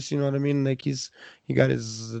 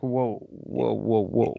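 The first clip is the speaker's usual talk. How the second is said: amazed; 4 semitones lower, much slower than usual. Retold or imitated. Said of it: "I was just like".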